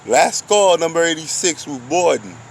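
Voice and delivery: playful announcer voice; mock boarding call.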